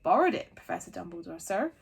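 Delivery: lightly voiced gentle giant; loud, bluff giant voice. A narrator's reading. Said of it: "said the giant".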